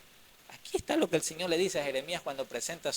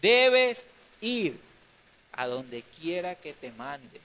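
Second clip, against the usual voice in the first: commanding divine voice; 5 dB louder, much slower than usual. Acted. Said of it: "Jeremías recibe esto".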